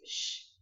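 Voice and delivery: "sh" as a hushing consonant; X sound. Shown as a demonstration. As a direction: sound out a drawn "sh". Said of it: "tem uma pronúncia de X".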